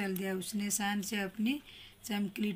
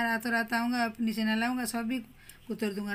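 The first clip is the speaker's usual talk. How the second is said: हल्की धमकी. Acted. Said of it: "अपनी कमर पर हाथ रख कर कहा".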